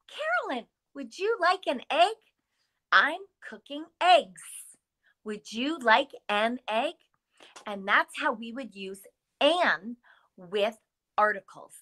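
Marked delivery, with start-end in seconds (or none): 0.1-6.9 offering an egg. Acted. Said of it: "And I might say".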